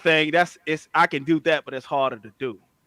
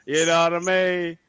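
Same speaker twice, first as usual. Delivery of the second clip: lightly voiced uncle impression. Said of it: "He sound just like Zeddy".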